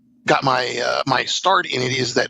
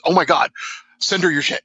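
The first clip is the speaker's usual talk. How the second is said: higher, eager push to send it; excited urging; 4 semitones higher than usual. Retold or imitated. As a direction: urge a friend on, excited. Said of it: "And she says".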